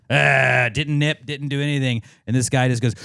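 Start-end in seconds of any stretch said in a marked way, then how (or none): 0.1-0.7 short mock growl; imitated dog growl. Showing his dog was only being loud, imitated growl. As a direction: imitate a noisy but harmless dog growling. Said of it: "she's just loud".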